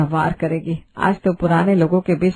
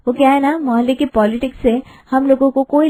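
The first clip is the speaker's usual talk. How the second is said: higher, rising, teasing वो क्या है ना with क्या lifted; sassy bride; 5 semitones higher than usual. Acted. Bride teasing the nosy neighbourhood aunties, cheeky and higher. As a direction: toss off वो क्या है ना with a cheeky upturn on क्या.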